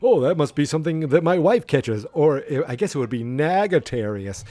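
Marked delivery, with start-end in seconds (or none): 0.0-2.0 Conrad Bain joke. Retold or imitated. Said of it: "Conrad Bain is like".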